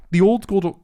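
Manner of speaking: high, loud, tripping over the name; over-excited. Real, not acted. Fan gushing about boss fights, over-excited. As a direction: let excitement run away with the words. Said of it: "What's happened to you?".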